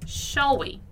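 very slow, careful English; drawn-out teacher demo; slow model reading. Shown as a demonstration. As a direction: spell it out slowly for learners. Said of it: "Ela diz o seguinte".

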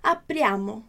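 slow, separated words with pauses; teacher syllable drill. Shown as a demonstration. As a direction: break it up word by word. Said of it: "Então, noi".

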